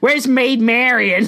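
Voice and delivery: high, slow mock hero, laughing; Robin Hood. Outlaw looking for his love, hammed-up mock accent.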